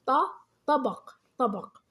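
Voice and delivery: ط alone as "ta", then طبق twice; slow, separate ط then طبق; sounding out with fatha. Shown as a demonstration. Teacher showing how fatha is pronounced, ط then slow طبق. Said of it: "انظروا كيف ألفظ بحركة الفتح".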